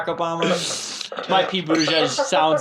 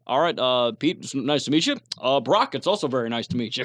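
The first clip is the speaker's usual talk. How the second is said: imitating Pete greeting; 6 semitones lower than usual. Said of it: "he's like".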